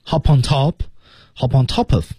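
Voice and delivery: "top of" linked as "to-pof"; linked reading. Shown as a demonstration. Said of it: "Top of连读". (把“Hop on top of”连读)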